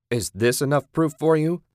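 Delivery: high, loud angry shout. A narrator's reading. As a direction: throw it at her in frustration. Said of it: "Ted shouted".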